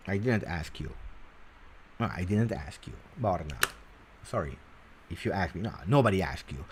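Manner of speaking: low, hushed deadpan; quiet, low pretend snub; mock rebuff. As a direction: drop right down to dismiss them jokingly. Mock rebuff of the viewer's message.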